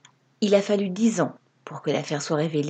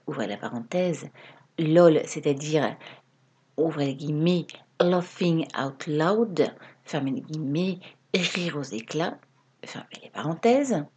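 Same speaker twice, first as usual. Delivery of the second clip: dictating. Pretend. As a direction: spell it out like a teacher dictating. Dictates punctuation like a teacher.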